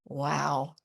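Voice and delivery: low, slow, soothing radio voice; calm it down like a late night host. Retold or imitated. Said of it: "put on a late night D J voice, low, slow, mellifluous".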